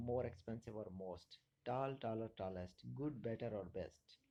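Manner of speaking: very slow, each word spaced out; slow model phrase. Shown as a demonstration. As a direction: spell out the forms slowly. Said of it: "teacher slowly models comparative forms".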